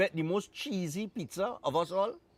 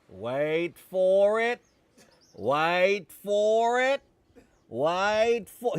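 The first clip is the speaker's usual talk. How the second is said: slow, drawn-out imitation of the crocodile hunter; mock crocodile hunter, building suspense; crocodile hunter catchphrase; 3 dB louder, much slower than usual. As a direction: stretch each word like the TV croc man teasing the suspense. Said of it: "He used to say".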